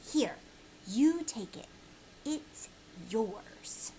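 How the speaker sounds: whispered, secretive; a whispered handover from a strange old man. Acted. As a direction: hush it like a secret gift. Old man hands over secret bag.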